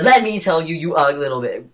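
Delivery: retold angry outburst at a classmate; furious fast rant. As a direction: tear into him, all fired up. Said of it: "Boo speaks very fast when he gets very upset".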